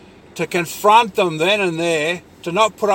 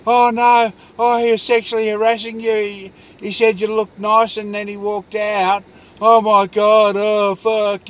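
mock hysterical panic; 4 semitones higher, 3 dB louder than usual. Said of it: "That kind of fucking".

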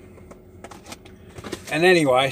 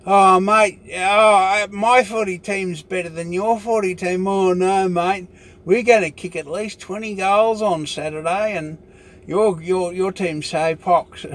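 higher, hammed-up footy banter between mates; a lightly voiced, higher yobbo trading boasts; mock Aussie blokes; 4 semitones higher than usual. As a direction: take the mickey out of blokes bragging about their footy team. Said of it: "they have their shazza and dazza".

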